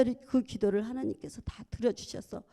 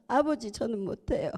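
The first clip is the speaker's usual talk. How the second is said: higher, louder pleading cry to God; a weeping wife pleading with God for her husband; tearful pleading prayer; 5 semitones higher, 4 dB louder than usual. Retold or imitated. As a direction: beg through tears, voice rising. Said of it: "울었습니다".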